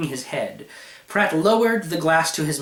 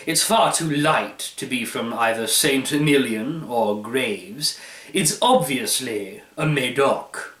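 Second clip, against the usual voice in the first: pompous wine expert. Acted. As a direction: savour each word like a fine wine. Pratt reasons through regions.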